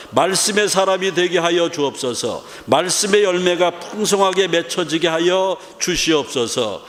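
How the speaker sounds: measured, earnest public prayer; led prayer. Real, not acted. Preacher leads the congregation in a written prayer, recited prayer. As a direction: recite each petition in the same prayerful cadence.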